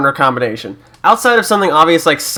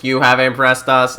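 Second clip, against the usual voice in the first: slow, even robot voice. Pretend. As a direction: speak like a stiff alien robot. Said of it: "like, a robot voice".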